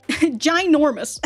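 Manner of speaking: stretched out slowly through a laugh; amused exaggeration. Real, not acted. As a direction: drag out ginormous while laughing.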